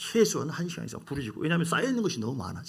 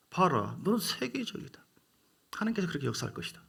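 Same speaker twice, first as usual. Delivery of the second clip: whispered blessing; 4 semitones higher than usual. Retold or imitated. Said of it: "blessing spoken to his son".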